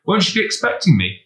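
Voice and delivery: high, anxious, rushed questions from Ben; a worried boy blurting it out fast and high. A narrator's reading. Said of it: "said Ben anxiously".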